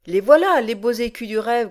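a hint of a pleased giant growl; satisfied growl. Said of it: "grogna Balbec avec satisfaction".

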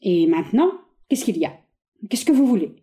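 a touch of held-back anger; restrained anger. Acted. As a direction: keep the anger barely in check. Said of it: "avec une colère contenue".

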